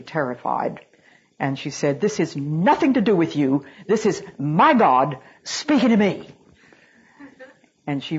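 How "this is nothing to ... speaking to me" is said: big, ringing, louder and higher declaration; a missionary's stentorian cry; stentorian proclamation. Retold or imitated. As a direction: boom it out like she's filling a mountain tunnel. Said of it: "she did have a stentorian voice".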